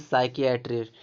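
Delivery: साइकियाट्रिस्ट with a hard "k" in "saiki". Shown as a demonstration. Teacher showing how CH is read, साइकियाट्रिस्ट with a "k" sound. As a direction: say साइकियाट्रिस्ट starting "sai-ki". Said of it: "का का sound निकल रहा है".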